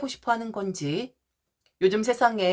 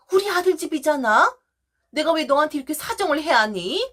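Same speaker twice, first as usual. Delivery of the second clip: indignant mother-in-law; 4 semitones higher than usual. Acted. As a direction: play the mother-in-law snapping back, offended. Mother-in-law turns on daughter-in-law. (높고 큰 목소리로 따지는 시어머니)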